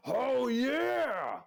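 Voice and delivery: loud high hype cheer; hype man shout. Pretend. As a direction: yell it like a crowd hype man. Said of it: "I'll give a".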